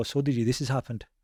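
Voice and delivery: ordinary talk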